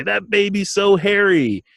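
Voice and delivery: high, slow, gushing; mock gush at a hairy baby; gushing coo. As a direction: coo it like a proud relative. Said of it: "Sometimes they say".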